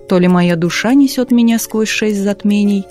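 ordinary delivery, nothing marked

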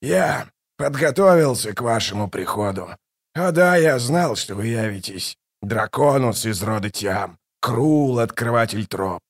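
a hint of a mocking tyrant. Kallor mocks the gods who came to him, lightly mocking king. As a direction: sneer at the gods from the throne, lightly.

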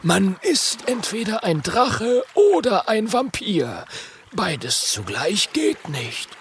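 put-on high, slow old teacher explaining; old dragon teacher explaining; wise teacher lecturing. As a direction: lay it out slowly and wisely.

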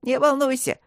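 bright, high reassurance; cheerful. A narrator's reading. The fairy cheers up frightened Eloise, high and merry. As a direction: chirp it happily. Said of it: "весело сказал Алимер".

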